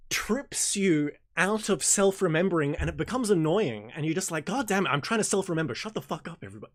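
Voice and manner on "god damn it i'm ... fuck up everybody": exasperated outburst. Retold or imitated. Meditator snapping at people who keep distracting him, exasperated. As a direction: blurt it out, fed up with the noise.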